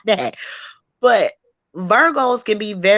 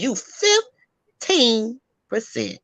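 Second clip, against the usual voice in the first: slow mock quote; 2 semitones higher, 3 dB quieter, much slower than usual. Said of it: "on a panel and says".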